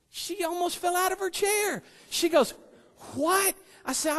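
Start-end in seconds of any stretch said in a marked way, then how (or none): 3.1-3.6 shocked what. Retold or imitated. Principal shocked at volunteer.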